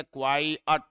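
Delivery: क्वाई अट split into kwai and ut; two separate syllables. Shown as a demonstration. Teacher building the word from its letters, क्वाई अट in two syllables. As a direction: say क्वाई, then अट as its own beat. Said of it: "ET से बनेगा ऐसे".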